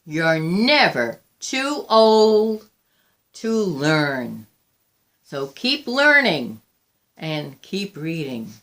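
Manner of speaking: slow, gentle encouragement. Acted. Old Mary gently tells her party guests to keep learning. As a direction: ease the words out kindly. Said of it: "she would gently close her book and say".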